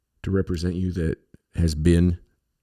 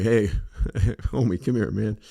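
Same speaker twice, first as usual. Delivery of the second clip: laughing greeting; 3 semitones higher, slower than usual. Retold or imitated. Greeting the sign guy, laughing.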